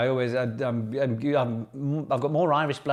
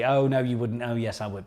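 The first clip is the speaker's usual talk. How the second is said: panto call and response. Pretend. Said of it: "Nick's Pub Quiz Panto".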